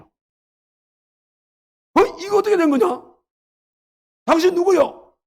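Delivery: stunned surprise. Acted. Booth seeing his own face on the nailer, stunned surprise. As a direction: recoil in disbelief. Booth sees himself holding the hammer.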